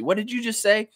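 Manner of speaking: high-pitched mock disbelief; put-on high incredulous voice; affronted coach. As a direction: demand it as a stunned coach. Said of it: "The coach says to Fiercely".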